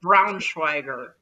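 deadpan suggestion. Real, not acted. Joke name for sixth child.

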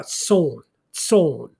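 "son" as a carefully shown Hebrew word; Hebrew pronunciation. Shown as a demonstration. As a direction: sound out "son" deliberately, each time standing alone. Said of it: "I believe that is pronounced".

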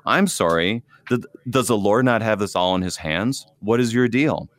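dry mock-puzzled sarcasm; sarcastic. Pastor using sarcasm on the anxious, lightly mocking. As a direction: needle them with mock surprise. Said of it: "here's how it works".

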